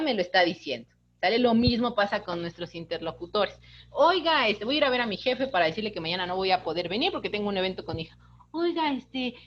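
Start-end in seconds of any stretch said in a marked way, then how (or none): 3.9-9.3 sweetened voice. Retold or imitated. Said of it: "ya me dulcificó la voz".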